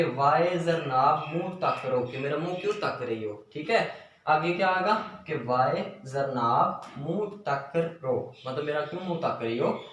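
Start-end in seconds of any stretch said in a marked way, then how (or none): 0.0-2.0 put-on Punjabi accent. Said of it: "एक लहजा है कि". 5.3-8.3 put-on Punjabi accent. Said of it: "एक लहजा है कि".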